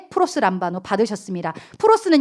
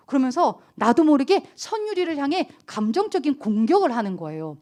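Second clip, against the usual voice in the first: normal talking voice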